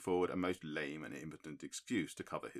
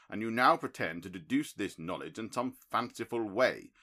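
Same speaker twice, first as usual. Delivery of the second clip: louder, hurt and accusing; indignant tirade, voice raised; bitter accusation; 4 semitones higher, 7 dB louder than usual. A narrator's reading. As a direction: cut him down for the trick. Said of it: "with considerable bitterness in my heart".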